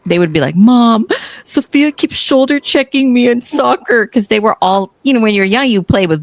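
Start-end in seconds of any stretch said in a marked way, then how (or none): 0.5-4.1 put-on whining boys. Boys complaining to mom about soccer, whiny. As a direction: whine like a kid telling on a girl.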